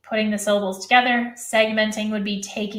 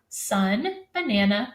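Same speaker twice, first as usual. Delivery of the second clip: ordinary delivery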